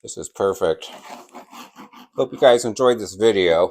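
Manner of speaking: talking through a mouthful; words round a bite of brisket; mouth full. Real, not acted. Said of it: "I'm talking with my mouth full".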